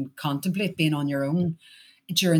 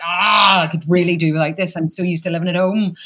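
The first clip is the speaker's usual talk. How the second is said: loud mock-exasperated "Ah" easing into complaint; retold exasperation; 6 dB louder than usual. Actor retells living with castmates, mock exasperated. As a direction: groan it out loudly, then grumble. Retold groan about sharing digs.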